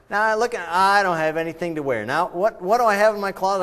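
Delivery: a mock cry of frustration; exasperated. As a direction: act out the morning closet despair. Acting out closet frustration.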